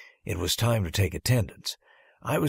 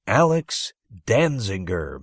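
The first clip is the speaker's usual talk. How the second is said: teacher calling roll; 5 dB louder than usual. Acted. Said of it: "Miss Paula called next".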